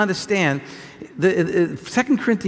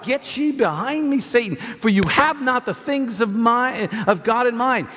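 scripture rebuke; 3 semitones higher than usual. Retold or imitated. Quotes rebuke of Satan.

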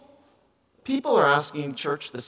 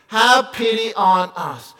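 mock scream; 4 semitones higher, 5 dB louder, slower than usual. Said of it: "Screamed it".

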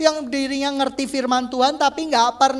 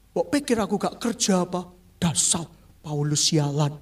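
low, resentful grumble; touchy, offended; 8 semitones lower, 4 dB quieter than usual. Acted. Oversensitive churchgoer reacting to Paul's words, offended. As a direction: grumble it low, taking it personally. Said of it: "orang yang baper".

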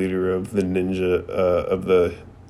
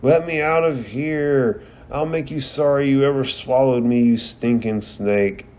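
mock yell, pitched up at the start; 4 semitones higher than usual. Naruto yelling from inside the snake, a mild mock yell. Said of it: "you can hear Naruto yelling".

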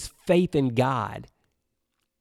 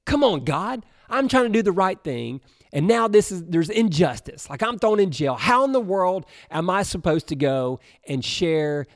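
frustrated complaining. Retold or imitated. Preacher imagining himself jailed, griping to God. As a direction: vent like you've been wronged and locked up. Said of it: "I'm like".

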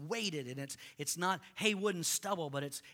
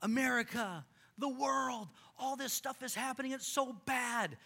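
frustrated complaint; 7 semitones higher than usual. Retold or imitated. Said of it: "We're like".

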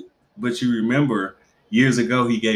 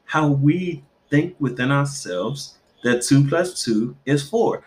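slow, higher pondering; mock philosopher; 5 semitones higher than usual. Mother musing to the therapist, mock pondering. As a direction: muse with fake depth. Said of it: "I was like".

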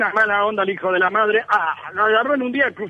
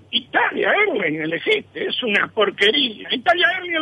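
mocking barber; 4 semitones higher than usual.

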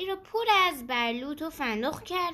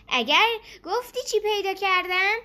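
higher, louder teasing question; smiling; 6 semitones higher, 5 dB louder than usual. A narrator's reading. Rabbit to squirrel about a find, smiling. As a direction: ask it with a smile, lifting to the end. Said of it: "لبخند زنان به سنجاب گفت".

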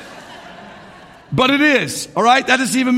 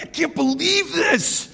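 mock irate; 4 semitones higher than usual. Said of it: "so frustrated, man, and just, like, irate".

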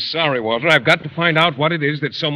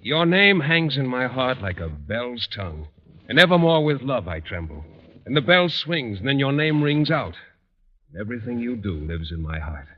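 romantic verse recitation. Acted. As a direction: recite it like a cherished poem. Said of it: "It goes".

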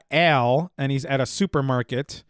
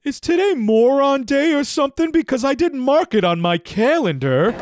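sarcastic insult; 10 semitones higher, 4 dB louder than usual. Acted. Al insults the clerk.

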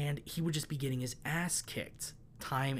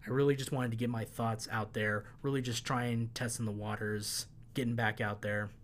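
losing voice. Real, not acted. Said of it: "Starting to lose my voice".

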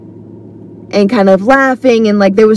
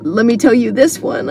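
joyful, excited; 4 dB quieter than usual. Retold or imitated. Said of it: "in such a joyful".

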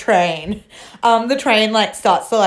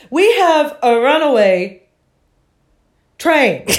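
withering little voice; 4 semitones higher, 3 dB louder than usual. Retold or imitated. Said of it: "the most withering little voice".

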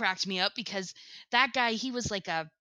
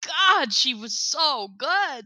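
admiring sigh; 5 semitones higher, 6 dB louder, slower than usual. Real, not acted. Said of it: "I'm just like".

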